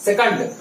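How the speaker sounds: सेकंड as "se-kund", short uh in the second syllable; correct pronunciation. Shown as a demonstration. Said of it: "ये right है".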